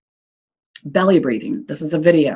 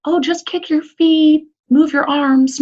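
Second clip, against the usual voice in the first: high, slow mock yelling to a drowning child; a parent yelling instructions, pitched much higher and slowed; 10 semitones higher, slower than usual. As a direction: call out useless advice from the poolside. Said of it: "when you're gonna yell to them".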